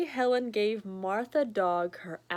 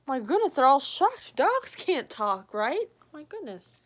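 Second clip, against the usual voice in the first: higher, louder amazed exclamation; mock shock; 4 semitones higher, 5 dB louder than usual. Real, not acted. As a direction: gasp at the talking dog. Reader reacts to surprise.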